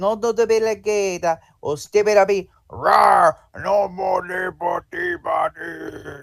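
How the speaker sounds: made-up fake language. Playing the gibberish speaker while a partner translates: speaking gibberish. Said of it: "I'm gonna speak gibberish about rude people".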